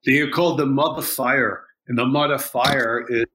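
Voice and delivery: put-on light French Canadian teacher accent. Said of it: "I'm gonna use my French Canadian teacher's accent here".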